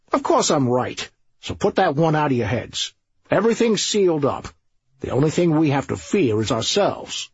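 lightly voiced smug police boss; confident sergeant.

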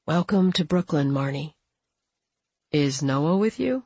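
gently reach out; kind voice. Acted. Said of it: "the kindness of his voice".

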